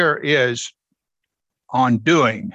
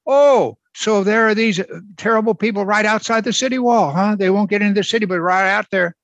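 raised, incredulous voice of a doubter; mock naive objection; 4 semitones higher than usual. A preacher mimicking skeptics who picture sinners outside the wall, mock incredulous. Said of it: "some say".

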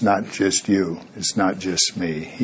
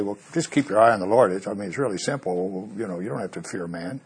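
glib advice; 2 semitones lower than usual. Retold or imitated. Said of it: "don't jump on them and say".

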